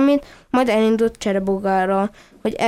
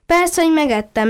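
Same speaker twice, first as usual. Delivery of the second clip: laughing admission; 6 semitones higher than usual. Acted. Duckling admits eating the snail to the puppy, laughing cheekily. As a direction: own up gleefully with a laugh. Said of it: "nevetett Samu".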